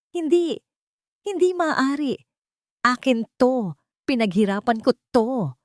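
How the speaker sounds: high, desperate cries of denial, like a man losing his mind; frantic scream. A narrator's reading. Mateo losing his mind as his company falls, screaming. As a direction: scream it like you're coming apart. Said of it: "Sigaw niya na parang isang nasisiraan ng bait".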